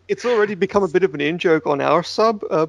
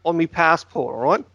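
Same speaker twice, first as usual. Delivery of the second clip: mock Aussie accent; cheeky put-on Australian twang. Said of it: "I can talk like this".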